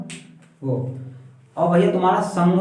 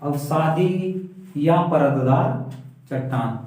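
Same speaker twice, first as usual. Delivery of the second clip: drawn-out, coaxing the answer from pupils; slow prompting; much slower than usual. Shown as a demonstration. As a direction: stretch it out so they fill in the word. Teacher prompts answer slowly. (धीरे-धीरे खींचकर संकेत देना)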